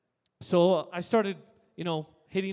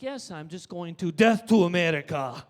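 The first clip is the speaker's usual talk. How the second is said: Tourette's outburst; 2 semitones lower, 5 dB louder than usual. Retold or imitated. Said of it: "terrorist Tourette's".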